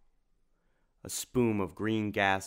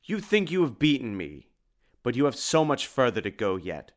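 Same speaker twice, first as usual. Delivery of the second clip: bone-rattle voice; 4 dB louder than usual. Acted. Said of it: "rattle snap of a thousand bones breaking".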